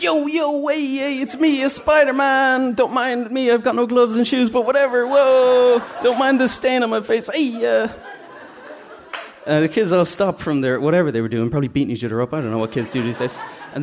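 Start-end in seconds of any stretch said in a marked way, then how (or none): 0.0-7.9 much higher, louder cheesy superhero entrance; hammed-up Spider-Man. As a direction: burst in like a bad party-entertainer hero. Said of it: "I'm like".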